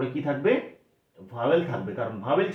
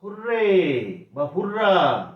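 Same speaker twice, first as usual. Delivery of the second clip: cheer example; 3 semitones higher, much slower than usual. Shown as a demonstration. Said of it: "যেমন".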